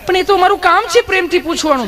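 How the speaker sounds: high, sugary nurse voice, teasing; sweet nurse voice. Acted. Nurse sweetly questions nervous Gabho, high cooing voice. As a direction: coo at him like an overly sweet nurse.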